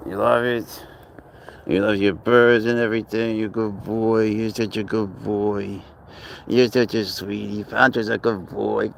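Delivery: gentle coaxing pet voice, slowed on the praise; pet talk. Real, not acted. Talking sweetly to his pet.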